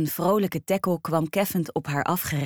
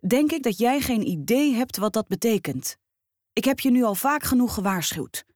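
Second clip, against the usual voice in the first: lightly voiced stern boss, higher; a hint of a strict manager; stern boss firing; 3 semitones higher than usual. Boss Mr Brown fires Rosa.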